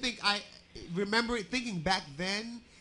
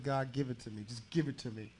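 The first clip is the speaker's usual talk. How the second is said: quiet pleading prayer; 6 semitones lower, 6 dB quieter than usual. Retold or imitated. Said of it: "and I meant that prayer".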